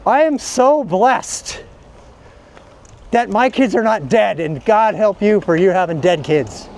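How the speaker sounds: slow, lightly sanctimonious "blessed" voice; a hint of smug churchgoer, drawn out; mock pious believer. Mocking believers who thank God, in slow pious tones. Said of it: "Whenever somebody says".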